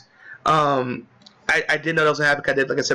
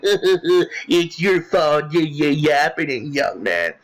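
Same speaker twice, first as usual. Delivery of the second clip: mock smarky taunt; much slower than usual. Villain blames the young man, mock smarky taunt. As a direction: mimic a smug, needling scolder. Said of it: "saying more smarky shit".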